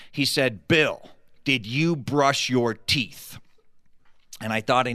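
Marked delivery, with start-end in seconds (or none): 0.7-3.4 slow, deadpan mock gravity; mock serious. Friend in bunk asking Bill in dead seriousness. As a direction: keep a straight face while stifling laughter. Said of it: "as seriously as he could".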